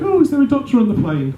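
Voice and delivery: high-pitched call down a plane cabin; calling for a doctor. Acted. Crew asks passengers for a doctor on the plane, urgent high call.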